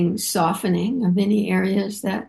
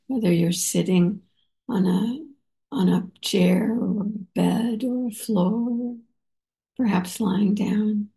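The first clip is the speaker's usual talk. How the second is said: whisper. Real, not acted. Meditation guidance, voice drops.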